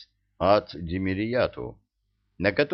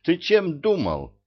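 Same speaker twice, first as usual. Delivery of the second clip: angry scolding; 9 semitones higher, 3 dB louder than usual. A narrator's reading. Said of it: "обрушился он на короля".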